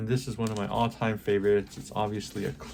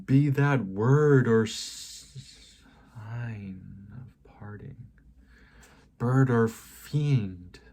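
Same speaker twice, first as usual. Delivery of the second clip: raised, slow, drawn-out declamation; mild acted shriek; 5 dB louder, slower than usual. Poem's narrator rounding on the raven, mild mock shriek. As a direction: loudly declaim it, stretching the words without truly shrieking. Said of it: "I shrieked".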